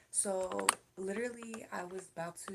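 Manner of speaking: sudden breathy whisper aside. Real, not acted. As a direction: drop to a whisper. Hushed aside to camera.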